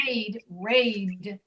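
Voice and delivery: RAID with the final D voiced and released. Shown as a demonstration. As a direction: let the voice carry into the d of "raid". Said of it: "you hear that final D".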